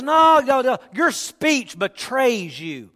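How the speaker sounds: high loud start, then slow; accusing bystander. Acted. Bystander telling Peter his speech betrays him, slow. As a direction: pin him down, slow and sure.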